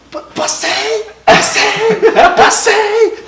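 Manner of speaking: high, rising to a cry; bursting out with the news; overjoyed. Retold or imitated. Telling his father at the airport he passed, overjoyed.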